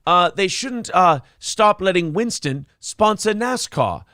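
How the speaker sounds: hammed-up club comic working the crowd; mock standup delivery; cheesy comic voice. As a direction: punch each line like a bad comedian. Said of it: "now you're just doing his voice".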